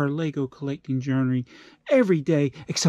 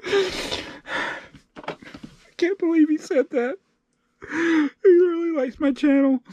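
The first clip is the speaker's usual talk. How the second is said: high, tearful squeak of gratitude; hammed-up crying, deeply touched; mock sobbing; 11 semitones higher, slower than usual. Mock sobbing over a trivial comment.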